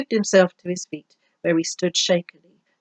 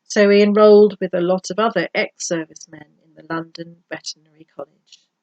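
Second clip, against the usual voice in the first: measured, expressive audiobook reading; story narration. A narrator's reading. Vet telling of his horseman colleague, story narration. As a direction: read the story out with lively emphasis.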